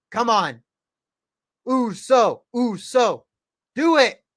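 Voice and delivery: loud, high fan cheer; excited cheering. Real, not acted. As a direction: urge him on like a fan. Cheering on wrestler.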